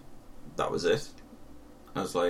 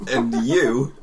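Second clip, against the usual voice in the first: laughing insult; 4 dB louder than usual. Retold or imitated. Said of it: "and I went".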